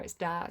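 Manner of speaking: "dare" said with a hard D for the TH; a broad northern singer's "dare". Retold or imitated. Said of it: "he'd pronounced the there as dare".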